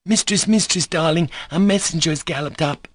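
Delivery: breathless joy. A narrator's reading. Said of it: "breathless and joyful".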